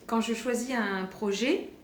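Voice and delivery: slow, after parking the gum; careful restart with gum in mouth; chewing gum. Real, not acted. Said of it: "j'ai un chewing-gum". (lentement, avec un chewing-gum)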